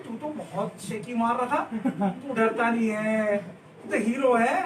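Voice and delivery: teasing laugh. Retold or imitated. Narrator teasing the scared friend.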